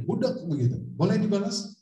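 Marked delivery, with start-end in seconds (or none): 0.0-0.4 high-pitched pretend yell; mock street shout. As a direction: toss it out like a passing heckler. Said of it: "Misalnya kita diteriakin". (pura-pura teriak di jalan, nada tinggi)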